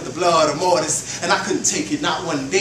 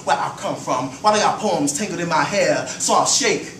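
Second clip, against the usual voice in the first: rhythmic spoken-word flow; poem recital. Acted. Poet reciting about his identity, rhythmic spoken word. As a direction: ride the beat of the verse.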